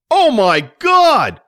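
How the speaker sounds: high, loud, drawn-out wail; slow shrieked exclamation; horrified cry. A narrator's reading. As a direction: cry out in alarm as the mother. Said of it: "Mike's mother cried".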